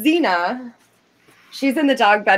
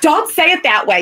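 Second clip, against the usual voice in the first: louder, higher exasperation at a guilt trip; exasperated protest; 6 semitones higher, 4 dB louder than usual. Real, not acted. Wife objecting to the vet's pound threat, exasperated. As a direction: push back on the emotional pressure. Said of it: "You know what you're doing".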